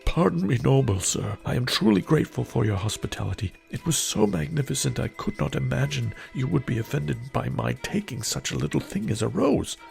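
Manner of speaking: grovel on your knees before the monster; begging for mercy. Acted. Merchant on his knees begs the beast, high frightened plea.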